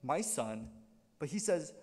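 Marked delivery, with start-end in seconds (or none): 0.0-0.7 low, gentle "My son"; fatherly address. Retold or imitated. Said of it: "he doesn't say".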